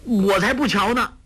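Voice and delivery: put-on high, girlish refusal; petulant refusal. A narrator's reading. 黄蓉 refuses to look at the coffin, petulant. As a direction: refuse to look, eyes shut tight. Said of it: "叫道".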